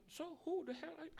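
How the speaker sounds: high, exasperated demand; exasperated angel. Acted. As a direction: lose patience with the stranger. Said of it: "Terus dia bilang". (malaikat kesal bertanya)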